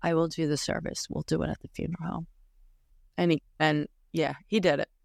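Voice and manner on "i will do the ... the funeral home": put-on, whispered delivery. Retelling what he whispered about doing the service: imitating a whisper.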